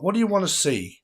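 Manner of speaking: lifted high and singsong to the chat; playful high call to viewers; high teasing call; sing-song call. Acted.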